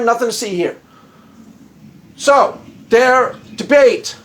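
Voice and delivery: ordinary talk, nothing marked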